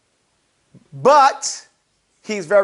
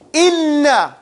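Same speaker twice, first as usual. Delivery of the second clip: INNA with a strong, lingering double n; teacher modelling emphasis on INNA; emphatic; 3 semitones higher than usual. Shown as a demonstration. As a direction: lean hard on INNA.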